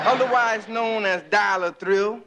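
put-on low, smooth lover-boy phone voice; ladies' man voice. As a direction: answer like a smooth Casanova. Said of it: "the Casanova of the ghetto speaking".

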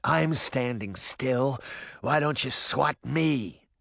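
slow, drawn-out dare; a measured, mild taunt to an attacker; challenging taunt. Acted. Canis hovering over the old hag, slow challenge.

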